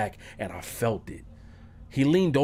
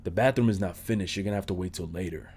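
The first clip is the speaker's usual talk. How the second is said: softer, lower, gently voiced host; gentle voice; 5 semitones lower, 6 dB quieter than usual. Host refusing the bathroom to his guest, soft and gentle. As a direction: imitate the host's soft, gentle turn-down. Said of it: "In his ever so gentle voice".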